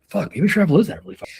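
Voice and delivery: a hammed-up frustrated aha; exasperated realisation. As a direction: throw up your hands in mock defeat. Acting out exasperated self-talk.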